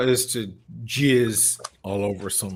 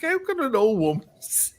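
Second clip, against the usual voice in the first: disbelief; 13 semitones higher than usual. Retold or imitated. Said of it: "I'm like".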